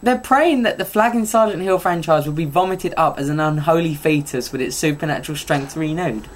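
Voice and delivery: a lightly put-on Italian read; mock Italian accent. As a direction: keep up a jokey Italian voice. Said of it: "my version of Italian".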